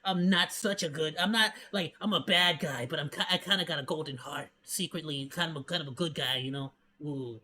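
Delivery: lightly voiced smug antihero, purring to himself; smug edgelord voice. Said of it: "and then they'll be like".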